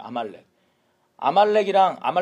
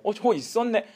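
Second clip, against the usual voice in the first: higher-pitched mock surprise; feigned ignorance; 5 semitones higher than usual. Saul caught with the spared animals, feigning surprise. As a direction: act as if it's news to you. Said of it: "모른 척하면서".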